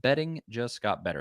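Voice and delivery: emphatic podcast ad read; live sponsor plug with lifted catchphrases. Acted. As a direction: sell the offer, punching key phrases. Reads sponsor ad.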